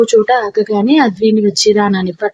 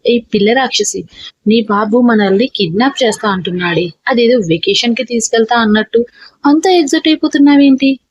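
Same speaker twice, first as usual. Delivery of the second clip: ordinary delivery, nothing marked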